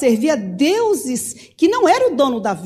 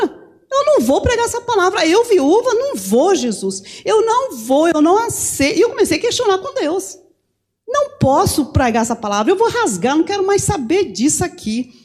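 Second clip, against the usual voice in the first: high, insistent protest; upset refusal; 6 semitones higher than usual. Retold or imitated. Preacher refuses to preach to God, high and protesting. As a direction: refuse outright, voice pitched up.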